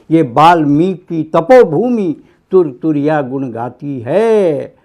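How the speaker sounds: rhythmic stage-poet declamation, dropping on the refrain; patriotic poem recital. Acted. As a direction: recite rousing verse to a crowd, then let the refrain settle. (लय में कविता पाठ)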